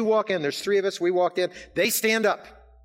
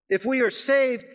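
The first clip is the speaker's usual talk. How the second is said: high, loud rising proclamation; loud fervent declaration; preaching climax; 9 semitones higher, 4 dB louder than usual. Acted. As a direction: build it to a ringing peak.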